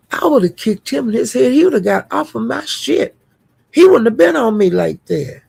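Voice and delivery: a hint of defiant ex-girlfriend; sassy. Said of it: "she was talking like that".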